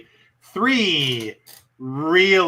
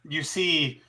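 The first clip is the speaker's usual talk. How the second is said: sultry narrator; 4 semitones lower, slower than usual. Acted. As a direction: purr it like a seductress. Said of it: "repeat it in your sultry voice".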